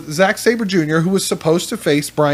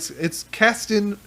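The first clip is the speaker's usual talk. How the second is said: usual speaking voice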